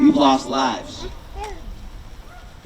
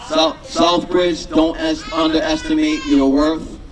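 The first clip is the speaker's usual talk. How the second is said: passionate shout. Real, not acted. Rally speaker calling out.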